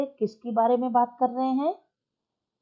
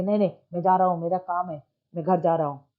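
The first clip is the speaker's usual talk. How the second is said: mild anger; 4 semitones lower, much faster than usual. Shown as a demonstration. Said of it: "चतुर्भुज इतना गुस्सा क्यों हो गया".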